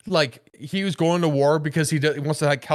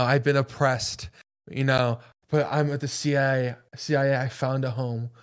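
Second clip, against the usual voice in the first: mock ad girl; 5 semitones lower, 3 dB quieter than usual. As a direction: parody a sincere recruiting ad softly. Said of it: "Where the girl's like".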